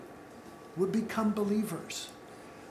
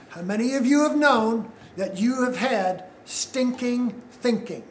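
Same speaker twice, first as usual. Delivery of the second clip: spaced out, with a break before "thinking"; slow and deliberate. Real, not acted. Preacher making sure the congregation gets the point, slow and deliberate. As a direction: say it very slowly so they get it. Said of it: "I'm gonna say this very slowly so you get it".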